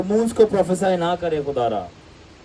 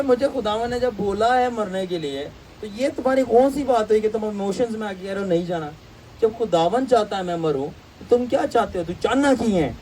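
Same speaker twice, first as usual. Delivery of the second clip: indignant rebuke; 4 semitones higher than usual. Retold or imitated. Paul rebuking emotional disciples.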